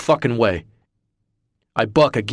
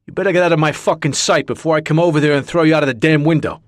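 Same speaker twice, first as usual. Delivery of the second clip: furious threat; 6 semitones higher, 5 dB louder, much faster than usual. Acted. Mac threatening the woman.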